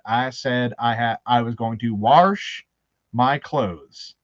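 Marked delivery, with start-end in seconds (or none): 1.9-4.1 WASH said as "warsh", with an added R; Baltimore pronunciation. Retold or imitated. Recruit tells drill sergeant his chore, Baltimore pronunciation of WASH with an R. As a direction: put an R into WASH, drawn out. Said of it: "an infamous Baltimore word".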